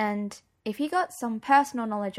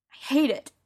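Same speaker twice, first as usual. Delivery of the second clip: a touch of tears, higher and pained; choking up; 6 semitones higher, 5 dB louder than usual. Acted. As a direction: say it as the tears start. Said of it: "I was choking up".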